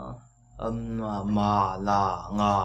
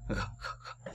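"k" and "g" whispered lightly; just breathe the "k" sounds; 13 dB quieter than usual. Shown as a demonstration. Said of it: "Giống như cái âm nhẹ thôi".

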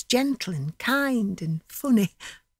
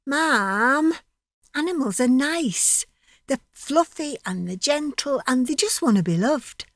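put-on higher pleading child's tone; naughty mock protest; 6 semitones higher than usual. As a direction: lecture mam with cheeky indignation. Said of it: "that's what I do when I'm mad with her".

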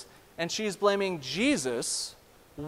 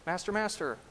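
cry out; 4 semitones higher than usual. Retold or imitated. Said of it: "they cry out".

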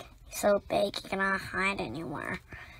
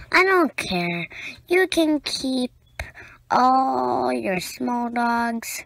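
louder, emphatic and proud; proud defiance; 3 dB louder than usual. Acted. Child reader defends her big red dog, loud and proud. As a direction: declare it like you'd never trade him.

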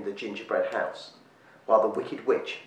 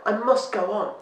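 much higher, urgent little voice; a scared creature pushing to escape; frightened plea; 12 semitones higher, 4 dB louder than usual. A narrator's reading. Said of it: "gasped Jub".

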